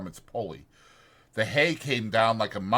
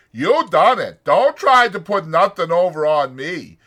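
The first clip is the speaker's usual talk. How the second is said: imitating George; 8 semitones higher, 12 dB louder than usual. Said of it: "He'll say".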